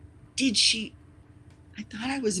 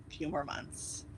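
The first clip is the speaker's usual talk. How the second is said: 1 whisper; 2 semitones lower, 11 dB quieter than usual. Real, not acted. Repeated low whisper.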